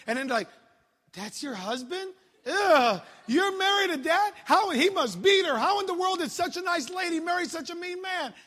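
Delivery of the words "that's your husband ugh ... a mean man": mock disgusted gossip, rising high; shocked church gossip, pitched up; scornful church folks. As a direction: sneer at the husband like shocked church ladies. Church people mocking the preacher.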